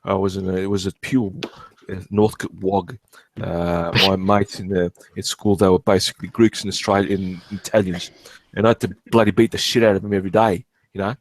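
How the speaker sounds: put-on Australian street-kid accent; broad North suburbs Australian; childhood Australian accent. Shown as a demonstration. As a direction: talk in your old Australian school accent. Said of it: "normal accent I was growing up".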